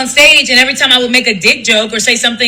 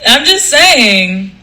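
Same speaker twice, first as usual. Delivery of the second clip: slow, drawn-out cartoon show-off; Johnny Bravo voice; much slower than usual. Comic repeats it for live viewers, slow cartoon swagger. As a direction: stretch it out in a lightly hammed-up voice. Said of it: "Johnny Bravo voice".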